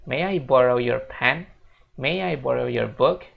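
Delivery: slow, with "May I" run together as one sound; connected speech, slowly; linked speech demo. Shown as a demonstration. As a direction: join "May I" smoothly, no break. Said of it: "Jadi ngomongnya".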